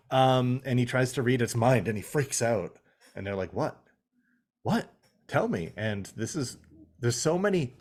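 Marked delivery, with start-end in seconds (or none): 3.5-5.7 mock pestering. Imitating characters' pestering.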